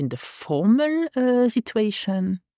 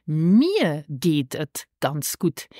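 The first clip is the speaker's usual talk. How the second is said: slow model phrase; 2 semitones lower, much slower than usual. Shown as a demonstration. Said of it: "Or you can say".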